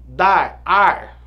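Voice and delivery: emphatic rhyme; rhyme stressed. Shown as a demonstration. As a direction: punch the rhyme ar. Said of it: "Olha aqui".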